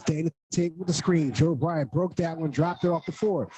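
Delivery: brisk radio basketball play-by-play. Real, not acted. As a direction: call the action live, quick. Live play-by-play call.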